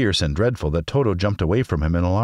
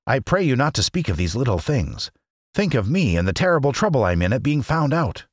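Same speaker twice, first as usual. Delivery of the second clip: high, self-pitying little man; fretful, high-voiced humbug; pleading little old man; 7 semitones higher than usual.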